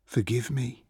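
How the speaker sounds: high, fragile request; ashamed plea. A narrator's reading. Achilles asks his friend's forgiveness, ashamed. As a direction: beg forgiveness in a small voice. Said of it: "flushed with shame".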